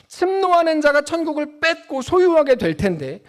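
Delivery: fervent sermon delivery; preaching. Acted. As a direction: proclaim the verse to the congregation. Preaching at force.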